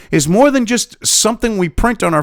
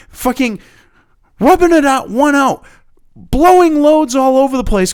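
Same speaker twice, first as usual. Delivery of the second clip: louder, higher jeering rant; crude loud rant; 7 semitones higher, 4 dB louder than usual. Real, not acted. Vlogger jeering at power-hungry bureaucrats, loud and crude. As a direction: jeer crudely at the officials.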